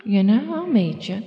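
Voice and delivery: breezy sing-song yes, leaping high on "Sure"; retold tipsy agreement. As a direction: play back a drinker's easy, high-pitched agreement. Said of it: "Well, I was drinking".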